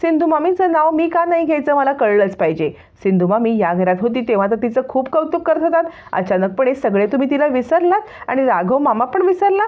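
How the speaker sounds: mildly angry demand for answers; lightly acted anger, pitch jumping up on the first questions. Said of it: "Anvi चिडते".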